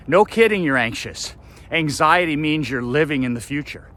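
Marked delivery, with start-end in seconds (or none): 0.1-1.4 loud, high mock surprise; scoffing at anxious people, loud and high; sarcastic outburst. Real, not acted. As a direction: throw it back with scorn. Sarcastic retort to mocked worrier.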